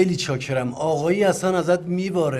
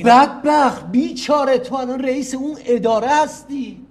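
louder, higher scolding of his son; scolding outburst; 8 semitones higher, 8 dB louder than usual. Acted. Father scolds his son for his job, louder and higher. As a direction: berate him, voice raised.

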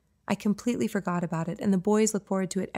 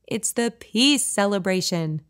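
exaggerated enthusiasm; 4 dB louder, slower than usual. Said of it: "I say with exaggerated enthusiasm".

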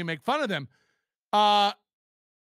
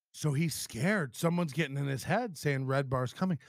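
mocking paraphrase; 9 semitones lower, 6 dB quieter than usual. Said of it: "how would you even take that away from this clip".

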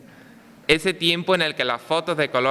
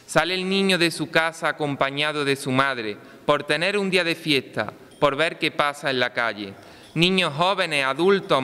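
town crier. Acted. Recited festival poem, pregón.

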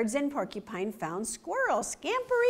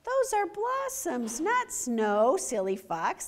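laughing animals; 6 semitones higher, slower than usual. Acted. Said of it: "the animals cried".

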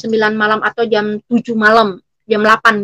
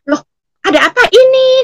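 imitated husband's surprise, high and loud; startled question; 12 semitones higher, 6 dB louder, faster than usual. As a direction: ask it taken aback, pitch jumping up. Husband startled by the visit, retold. (menirukan suami kaget, bertanya dengan nada tinggi)

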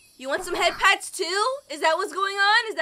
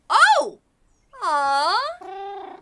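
delighted gasp; 3 semitones higher than usual. Real, not acted. Delighted at petting.

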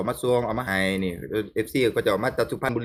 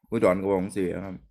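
Udon accent; 4 semitones lower than usual. Shown as a demonstration. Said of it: "เอาภาษาอุดรนั่นไหน".

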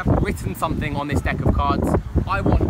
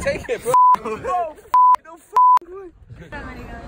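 stunned stammer; 12 semitones higher, 8 dB louder, much slower than usual. Real, not acted. Spectator stunned speechless.

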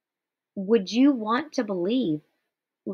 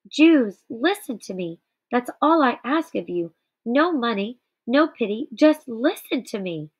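loud, pleading cry to the crowd; pleading shout; 2 semitones higher, 3 dB louder than usual. Acted. Moish pleading with the Jews in synagogue, loud desperate call. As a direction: beg them to listen, calling out loud. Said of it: "he kept shouting in synagogue".

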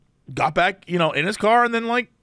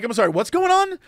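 higher-pitched apologetic question; defusing; 6 semitones higher than usual. Retold or imitated. Driver calming the man who walked up, apologetic. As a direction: placate him, puzzled and polite. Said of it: "I was trying to be very, like, diffuse the situation-y".

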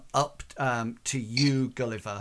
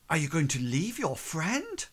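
higher-pitched disdainful question; 4 semitones higher than usual. Acted. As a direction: ask it with cool disdain, voice lifting. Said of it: "with disdain".

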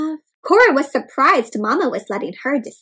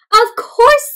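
cheerful; 11 semitones higher, 9 dB louder than usual. Acted. Mother's eager answer.

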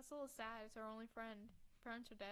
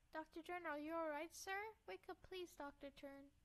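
put-on higher-pitched girl pleading; worried girl; 5 semitones higher than usual. Girl tries to wake the doctor, worried.

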